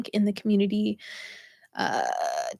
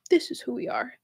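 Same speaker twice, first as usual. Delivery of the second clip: whispered insistence; 2 semitones higher, 5 dB quieter than usual. Retold or imitated. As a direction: whisper the repeat, breathy and unvoiced. Ego voice repeating its refusal.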